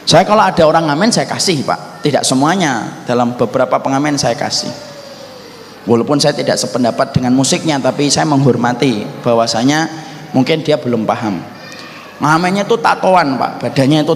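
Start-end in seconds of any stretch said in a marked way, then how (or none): none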